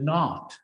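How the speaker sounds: firm emphasis on "not"; stress on NOT. Real, not acted. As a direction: set "not" apart, stressed, with a brief break after. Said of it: "and I emphasize not".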